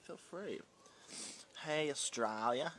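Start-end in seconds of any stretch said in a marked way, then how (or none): 1.6-2.7 terrible greeting attempt. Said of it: "That was terrible".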